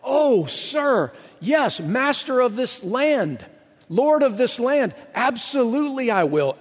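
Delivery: mock-reverent son bowing and scraping; great reverence. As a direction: grovel to the master of the land. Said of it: "speaking with great reverence to his father".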